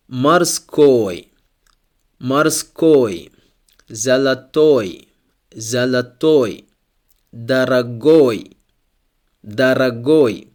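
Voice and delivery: морской, золотой, дорогой with the stress on the final ОЙ. Shown as a demonstration. Teacher showing Russian adjectives with stress on the ending. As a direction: slowly hit the last syllable of морской, золотой, дорогой. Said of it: "letter O here ... is stressed".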